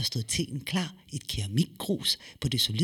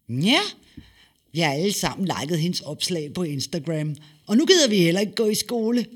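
put-on louder, higher, fast boy's voice; excited boy; 4 semitones higher, 5 dB louder than usual. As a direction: rattle it off, thrilled. (drengen fortæller hurtigt og begejstret)

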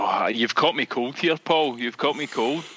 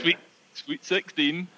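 bingo caller. Shown as a demonstration. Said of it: "Go on, go on, Mikey".

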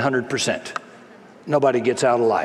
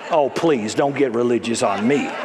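laughing aside; 4 semitones lower than usual. Real, not acted. Teasing the congregation.

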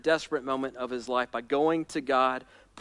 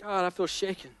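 hushed confession; 4 semitones higher, 5 dB quieter than usual. Acted. David admitting to God he is shaken, softly. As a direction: let it sink to a quiet prayer.

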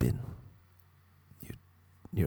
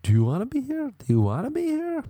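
shrill high yelling fitness coach; yelling instructor. Retold or imitated. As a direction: bark it like a hot yoga drill instructor. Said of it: "He's like".

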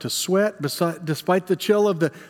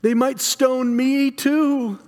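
slow, higher, drawn-out dread; fearful pleading; 5 semitones higher, slower than usual. Acted. Peter fears the mob will stone him, pleading. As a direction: plead helplessly, stretching the words.

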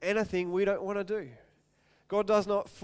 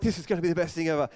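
eager; 4 dB louder, much faster than usual. Pretend. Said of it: "you're like".

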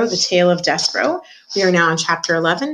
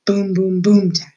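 ominous drumbeat; 2 semitones higher, 5 dB louder, slower than usual. A narrator's reading. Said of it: "an ominous sound that went something like this".

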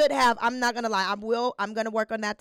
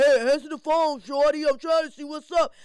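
mock Terrence; 3 semitones higher, 5 dB louder than usual.

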